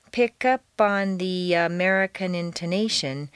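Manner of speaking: "Pick up on" flowing as one connected phrase; "Pick up on the American intonation" without breaks between words; linked words. Shown as a demonstration. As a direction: push each sound of "Pick up on" into the next. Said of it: "feel each sound pushing into the next".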